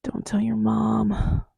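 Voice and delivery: slow whispered come-on, lightly done; mock sexy voice. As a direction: breathe it slowly like a cheesy seducer. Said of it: "in a sexy voice".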